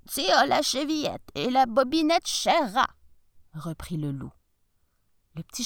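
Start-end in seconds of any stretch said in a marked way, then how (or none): 0.1-2.9 shapeshifter. Acted. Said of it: "en imitant la voix de la grand-mère".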